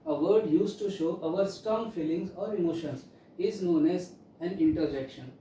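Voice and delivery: reading a definition aloud word by word; slow dictation. Shown as a demonstration. Teacher dictating to students at a very slow pace. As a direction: dictate slowly so pupils can write it down.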